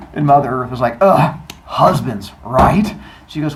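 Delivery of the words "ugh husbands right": weary eye-roll. Retold or imitated. Gaia commiserates.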